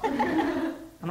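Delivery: slow, giggling through the words; laughing so hard the words stretch out; giggly, drawn-out lead-in. Real, not acted. Laughing while retelling.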